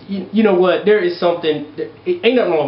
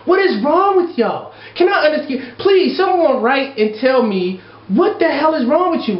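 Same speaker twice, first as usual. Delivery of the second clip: high, pleading outrage; exasperated rant; 5 semitones higher than usual. Real, not acted. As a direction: demand answers, throwing up your hands. Ranting at letter writer.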